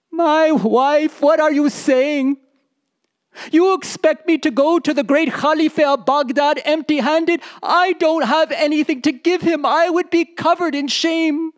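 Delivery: a storyteller voicing a husband upset at going empty-handed; protesting husband. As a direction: recoil from the idea of shame.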